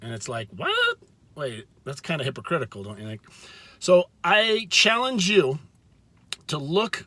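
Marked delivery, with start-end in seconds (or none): 0.5-3.2 mock surprise. Mock surprised reaction to hypocrisy.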